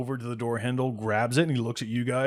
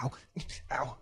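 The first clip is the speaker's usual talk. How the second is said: hurt groans; 3 semitones higher, 10 dB quieter than usual. Acted. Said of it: "gripping his ribs".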